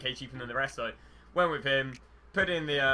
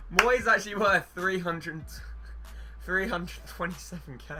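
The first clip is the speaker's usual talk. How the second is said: excited disbelief; 5 semitones higher, 4 dB louder than usual. Real, not acted. Surprised at high card value.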